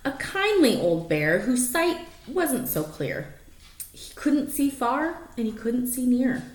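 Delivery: lively rhyming read-aloud; story narration. Acted. Reading a rhyming picture book to the dogs, lively storytelling. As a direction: read it like a bedtime picture book, bouncing the rhymes.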